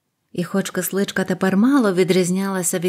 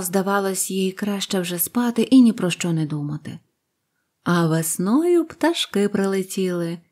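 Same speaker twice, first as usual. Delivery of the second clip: usual speaking voice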